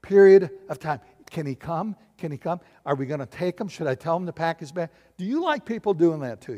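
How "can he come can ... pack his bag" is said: nagging. Retold or imitated. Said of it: "this nagging voice".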